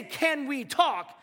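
ominous "can we talk". Retold or imitated. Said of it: "When you say".

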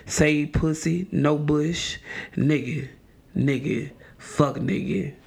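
measured, solemn poet's recital; Maya Angelou. Acted. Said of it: "in my best Maya Angelou voice".

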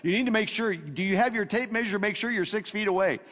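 mild nagging, anxious voice of fear. Retold or imitated. Preacher voicing fear nagging the listener, mild anxious nag. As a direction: nag like a worried inner voice. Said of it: "He's always saying".

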